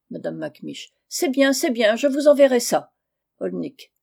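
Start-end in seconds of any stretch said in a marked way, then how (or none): 1.1-2.9 raised, louder, irritated agreement; impatient assent. Acted. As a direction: brush off the money talk. Aunt irritated by talk of money. (acquiescement agacé)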